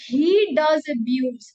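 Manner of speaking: He does abuse, slow and loud, does hit hard; complaining to a mother, firm stress on does; emphatic does. Shown as a demonstration. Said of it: "तो आप जोर दे के बोलोगे".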